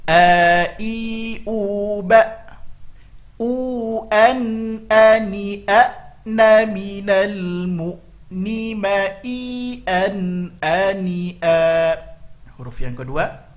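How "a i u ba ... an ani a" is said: slow, measured Quran-style syllable drill; teacher modelling recitation for students; drilled Arabic recitation. Shown as a demonstration. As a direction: chant the letter drills clearly and evenly. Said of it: "Sekali lagi".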